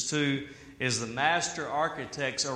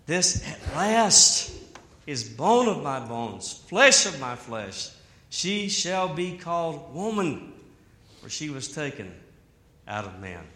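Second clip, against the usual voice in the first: overjoyed love song. Retold or imitated. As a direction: savour each word like a joyful discovery. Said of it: "the first love song is right here".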